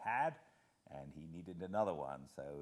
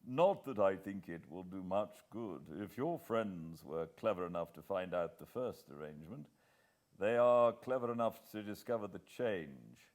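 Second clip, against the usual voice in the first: lightly voiced brisk English gentleman, a touch louder; a hint of a senior official briefing, firm and louder; Sir Walter; 6 dB louder than usual. Sir Walter briefing Hannay over breakfast, lightly voiced and firm.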